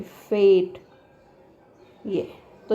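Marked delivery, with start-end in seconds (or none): 0.0-0.8 "फेट" with the ए held long before the ट; long vowel demonstration. Shown as a demonstration. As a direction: model "फेट" firmly, drawing out its long ए. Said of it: "ये ऐसा हो जाएगा actually". ("फेट" में ए को लंबा खींचकर बोलें)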